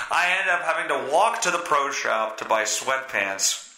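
ordinary talk

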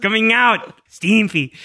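high cartoon impersonation; playful mash-up of ghost and cartoon voice; Ren and Stimpy character. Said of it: "like a Ren and Stimpy character".

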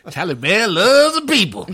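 loud laughing echo, high; laughing it back. Real, not acted. Cohost echoing the boast, laughing loudly.

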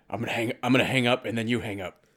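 quick conspiratorial stage whisper; mock whisper. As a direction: whisper a hurried plan to an accomplice. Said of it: "Why are you guys whispering".

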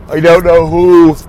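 speaking through a yawn. Real, not acted. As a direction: yawn while saying it. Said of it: "I don't know why I'm yawning so much".

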